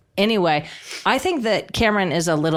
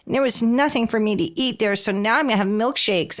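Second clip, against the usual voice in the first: higher-pitched mock baby voice; put-on little-baby voice, pitched up; 5 semitones higher than usual. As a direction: imitate a grown woman talking like a baby. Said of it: "she talks in a baby voice".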